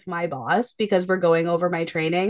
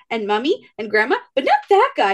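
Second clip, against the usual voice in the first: put-on blunt child voice; 4 semitones higher than usual. Toddler excluding mom's friend from pizza, high blunt child voice. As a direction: insist on it like a stubborn little kid. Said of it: "Reagan goes".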